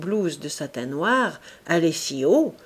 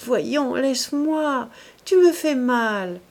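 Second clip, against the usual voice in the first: embarrassed fading laugh; 5 semitones higher, 4 dB louder, slower than usual. A narrator's reading. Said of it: "de son rire embarrassé et mourant".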